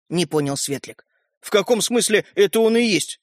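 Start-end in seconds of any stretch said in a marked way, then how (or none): 1.4-3.2 puzzled question; bewildered. A narrator's reading. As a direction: ask with mild bewilderment. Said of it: "с недоумением спросил Родька". (с недоумением)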